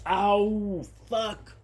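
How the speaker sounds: sharp pained yelp, then quiet; real pain from a stubbed toe. Real, not acted. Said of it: "I stubbed my toes and it really hurts".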